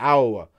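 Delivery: "Iowa" squeezed into a short "AH-uh"; viewers' Iowa. Retold or imitated. Mimicking how his viewers say the state, clipped Iowa. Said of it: "I think that's how y'all say it".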